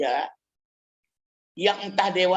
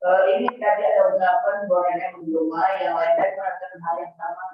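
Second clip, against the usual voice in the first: echoing room sound; cathedral echo. Real, not acted. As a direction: voice ringing in a big hall. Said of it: "suaranya menggema banget ya".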